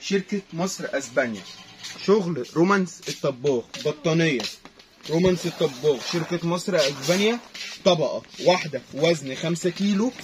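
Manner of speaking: market hawker calling out prices; arabic street vendor cry. Acted. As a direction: sing out the deal like a stall seller. Vendor hawking blanket deal. (نداء بائع في السوق)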